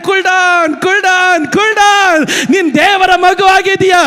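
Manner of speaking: rising to a loud preached urging; building firm calm-down. Retold or imitated. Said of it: "ಪವಿತ್ರಾತ್ಮನ ಹೇಳ್ತಾನೆ".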